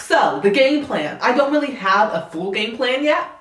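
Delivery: light put-on Southern accent. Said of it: "if my Southern accent isn't the best".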